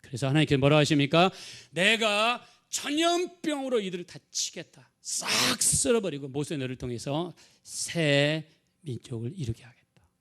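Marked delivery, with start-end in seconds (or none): 1.7-10.1 slow, emphatic pronouncement of wrath; wrathful God. Acted. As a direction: voice God's anger, stretching the key words. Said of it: "이게 하나님께서 진노하셨어요".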